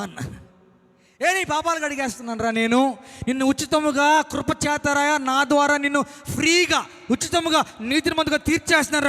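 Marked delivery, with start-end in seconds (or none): 1.3-9.1 booming call from God; divine proclamation. Acted. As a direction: proclaim forgiveness with full force. God declaring forgiveness.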